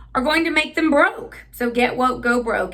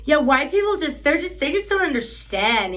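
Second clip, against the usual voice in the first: surfer voice; 6 semitones higher than usual. Retold or imitated. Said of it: "and is like".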